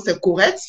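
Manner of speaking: "correct" said with first vowel as "ou"; prononciation québécoise. Shown as a demonstration. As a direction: imitate Quebec "correct", sounding like "courrect". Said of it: "Eux, ils vont dire c'est correct". (« correct » prononcé « courrect », à la québécoise)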